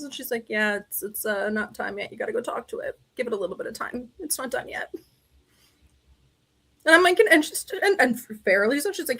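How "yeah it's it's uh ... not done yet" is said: gently downplay it, softly; calm advice. Retold or imitated. Mentor's calm advice, retold.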